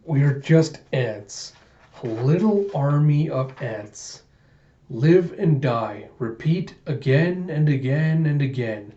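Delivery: lightly voiced nihilist musing; brooding villain monologue. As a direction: intone it like a doom-laden poem.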